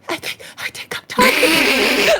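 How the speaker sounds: high, slow giggling plea; laughing mock dying. Imitating the friend again, laughing. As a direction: dissolve into laughter mid-line. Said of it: "He was like".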